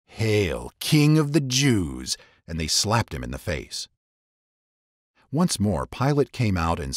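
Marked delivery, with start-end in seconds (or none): 0.1-2.2 mocking soldiers. A narrator's reading.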